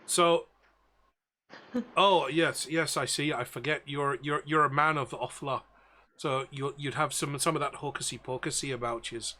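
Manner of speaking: ship's captain in a rough attempt at Belfast; bad Belfast accent. Captain worrying over overloaded broomsticks, bad Belfast accent. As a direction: put on a poor Belfast accent. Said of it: "absolute worst Belfast accent I've ever done".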